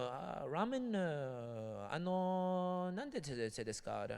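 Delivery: mock Japanese. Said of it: "he'll be like".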